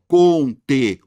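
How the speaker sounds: "conteúdo" in four separate loud syllables. Shown as a demonstration. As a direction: punch the Ú while splitting "conteúdo". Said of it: "Quatro sílabas".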